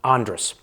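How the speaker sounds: Andros said AHN-drus, the o dropped; Bahamian pronunciation. Shown as a demonstration. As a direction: Andros with no o sound. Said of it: "it's like the O isn't even there".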